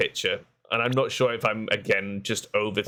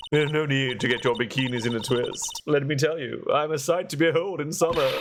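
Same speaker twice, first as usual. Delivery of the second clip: lightly voiced nun, pitch climbing as she boasts; teasing head nun; 3 semitones higher than usual. Head nun brags to the court about summer bikinis, teasing. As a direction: playfully boast in a light character voice.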